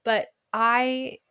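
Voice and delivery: words pushed out loud and high through laughter; laughing while talking. Real, not acted. Telling listeners age doesn't matter, still laughing loudly.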